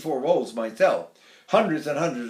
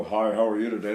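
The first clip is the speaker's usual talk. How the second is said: low, booming tenor greeting; big tenor voice; 8 semitones lower than usual. Retold or imitated. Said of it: "Those big tenors, they go".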